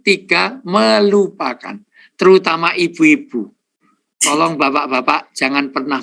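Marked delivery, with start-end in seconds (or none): 0.6-1.8 drawn-out emphasis. Real, not acted. Counts the steps, stretched word.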